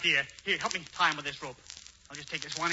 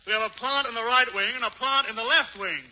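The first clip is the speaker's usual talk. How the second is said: pretending to be Hubert; 6 semitones higher, 4 dB louder than usual. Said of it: "make believe that you're Hubert Updike".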